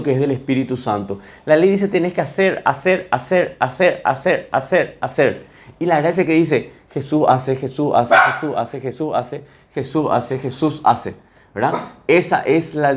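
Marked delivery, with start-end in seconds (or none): 1.9-5.5 "hacer" repeated in an even, insistent beat; relentless demand. Retold or imitated. The law ordering people to do, "hacer" hammered out repeatedly. Voices the law's endless demands. 6.9-11.1 "Jesús hace" repeated in a steady, falling beat; rhythmic assurance. Retold or imitated. Grace answering the law, "Jesús hace" said as steady repeated assurance.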